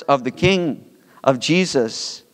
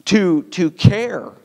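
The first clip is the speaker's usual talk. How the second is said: earnest spoken prayer, slower in places; pastoral prayer; 2 semitones higher than usual. Acted. Pastor praying for the congregation after the sermon, earnest prayer. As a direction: pray sincerely over the people.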